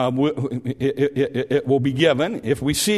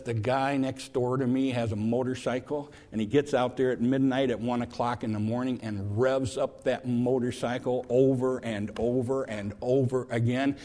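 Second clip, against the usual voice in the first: quiet angry grumble; 3 semitones lower, 6 dB quieter than usual. Retold or imitated. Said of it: "He says".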